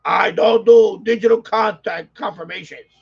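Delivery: slow, loud, spelled-out declaration; mock-shouted rule; bold-letter shout. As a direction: read it like it's in bold capitals. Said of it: "in bold letters".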